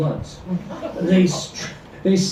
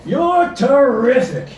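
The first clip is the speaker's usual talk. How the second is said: flattering husband; 7 semitones higher, 5 dB louder, slower than usual. A narrator's reading.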